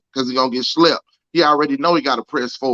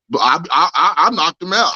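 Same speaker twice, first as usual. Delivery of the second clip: boastful fighter impression; 3 semitones higher than usual. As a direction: brag like you just won the belt. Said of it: "he gonna act like he beat Mike motherfucking Tyson".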